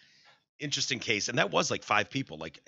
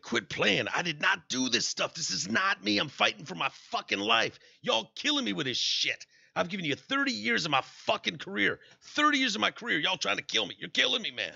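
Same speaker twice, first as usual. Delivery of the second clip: high, pleading mock defendant; mock whiny defendant plea; 7 semitones higher than usual. Podcast host mocking the accused pleading innocence, whiny. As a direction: wail it like a caught man playing victim.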